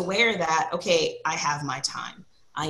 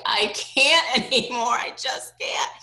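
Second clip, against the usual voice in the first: exhausted; 6 semitones higher, 4 dB louder, slower than usual. Retold or imitated. Exhausted mom venting.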